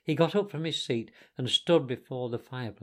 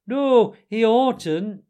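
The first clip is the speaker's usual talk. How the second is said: loud, high, drawn-out objection; indignant shout; 10 semitones higher, 11 dB louder, much slower than usual. A narrator's reading. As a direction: shout it down, dragging the words. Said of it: "shouted the Mole with his mouth full".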